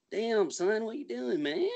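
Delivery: squeaky-high Tennessee redneck impression; high-pitched Tennessee redneck. Mimicking rural Tennessee talk for co-host, high redneck accent. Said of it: "a little bit more high-pitched when they talk".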